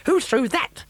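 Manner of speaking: high, loud outraged squawk; a witch furious at being hit. A narrator's reading.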